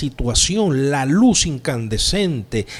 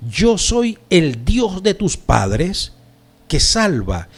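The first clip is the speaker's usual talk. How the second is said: slow, raised declaration, falling at the close; divine proclamation; 3 semitones higher, slower than usual. Acted. Preacher voices God as Pablo understands it, slow and emphatic. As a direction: proclaim it slowly as God would. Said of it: "Y Pablo interpreta".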